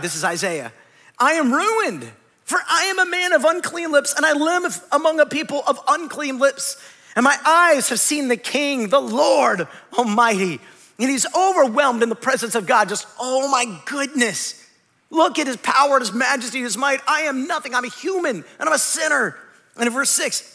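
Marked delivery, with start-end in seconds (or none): 1.2-10.6 higher, pleading confession of a man undone; overwhelmed prophet. Acted. Isaiah before God's throne, confessing his unclean lips, overwhelmed and pleading. 13.2-19.4 awestruck prophet. Acted. Isaiah in God's presence, awestruck and humbled.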